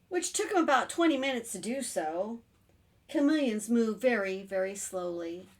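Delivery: put-on expressive reading to children, slowing at the end; story narration. A narrator's reading. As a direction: draw the tale out for little listeners. Reads picture book aloud.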